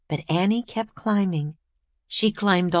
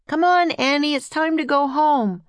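put-on boy calling out, high and loud; yelling; 9 semitones higher, 4 dB louder than usual. A narrator's reading. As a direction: call his sister home from afar. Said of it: "yelled Jack".

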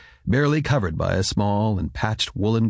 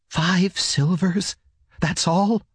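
higher-pitched woman, slow incredulous question; woman's low voice; 10 semitones higher, slower than usual. A narrator's reading. Woman questions husband about the silvers, low-voiced dismay. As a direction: voice a woman questioning a meagre sum. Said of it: "asked the woman in a low voice".

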